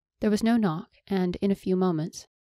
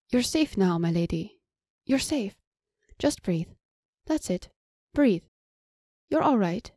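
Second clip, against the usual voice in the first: soothing; 2 semitones higher than usual. Acted. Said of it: "soothing voice relaxing her into serenity".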